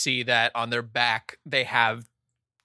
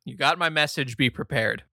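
a hint of a menacing read; mildly foreboding; ominous message voice. The GM reads a threatening text in a slightly ominous tone. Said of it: "You hear that in your head".

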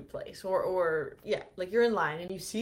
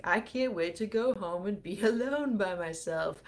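retold boiling over. Retelling inner social panic to viewers, mock distressed. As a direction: let retold dread boil over, lightly acted. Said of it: "boil up inside".

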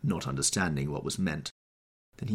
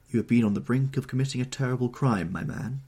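raised, stern warning; 6 semitones higher, 5 dB louder than usual. Acted. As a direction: scold him sternly from above. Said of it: "looking at him sternly".

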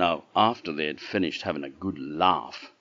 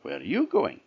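animal voice; 4 semitones higher than usual. Acted. Animal greets Chak in story.

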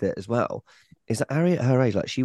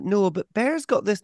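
mocking Lisa; 10 semitones higher than usual. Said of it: "She's like".

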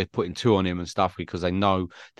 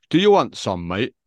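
put-on northern accent; 5 dB louder than usual. Mimicking his massive mate squaring up to young lads, northern accent. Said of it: "In a northern accent".

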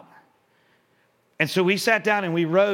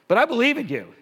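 encouraging attitude; 6 semitones higher, 4 dB louder than usual. Shown as a demonstration. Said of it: "do you see that attitude shift".

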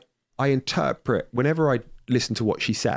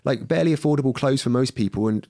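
ranting at a poser; 3 semitones higher than usual. Retold or imitated. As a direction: vent at him as if he's in front of you, half acted. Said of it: "And I'm like".

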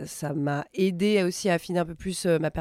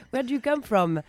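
lightly put-on, higher sociable English; playacted backpacker small talk; 3 semitones higher, slower than usual. Backpacker introducing herself to imagined tourists, playacted small talk. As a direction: play at chatting up hostel travellers. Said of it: "Elle fait tous les personnages".

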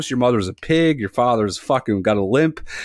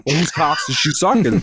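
mock sassy challenge; 5 semitones higher than usual. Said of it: "picture yelling at a little twelve-year-old girl".

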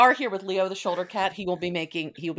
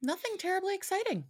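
high, flat sing-song deadpan; 4 dB quieter than usual. Real, not acted. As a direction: say it with mock boredom.

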